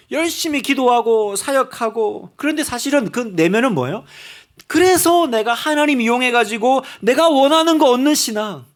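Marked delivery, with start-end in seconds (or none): 4.7-8.6 rising sermon intensity; building preacher's emphasis; preaching louder. Real, not acted. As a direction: press the point hard and loud.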